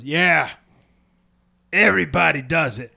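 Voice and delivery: lightly drawled Southern quote; unhurried Southern imitation; put-on Southern accent. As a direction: imitate the landowner with a hint of Southern. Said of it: "He doesn't have a Southern accent".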